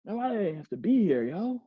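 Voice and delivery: sulky slow grumbling; hammed-up pouty grumble; mock sulking. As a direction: act out being left out, sulking. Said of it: "this is what they could sometimes do".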